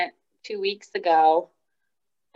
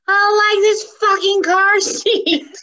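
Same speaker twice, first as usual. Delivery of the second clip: put-on much higher, laughing through the toddler's words; laughing retelling; 12 semitones higher, 6 dB louder than usual. Mom laughing while repeating her daughter's curse. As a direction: giggle out the little girl's line. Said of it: "And she goes".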